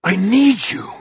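high, loud plea; urgent shout. Acted. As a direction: force it through to him.

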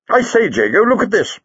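high-pitched, eager call to a companion; excited discovery. Acted. Lightfoot points out the hatch to Jago, excited. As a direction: draw his attention with sudden excitement. Spots a way of escape.

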